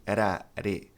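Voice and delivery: "ra, re" with a light tapped R; flapped T sound. Shown as a demonstration. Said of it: "esse T tem som de re".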